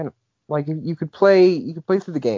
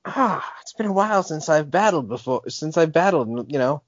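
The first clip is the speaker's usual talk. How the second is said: lightly voiced old trainer asking to battle; a hint of a kindly old challenger; old battler; 2 semitones higher than usual. Old trainer invites the player to battle, lightly voiced.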